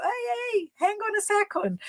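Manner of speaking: high-pitched mock protest; imitated overwhelmed listener. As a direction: imitate someone squeaking to halt a fast talker. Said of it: "A pessoa". (imitando aluno atordoado, voz bem aguda)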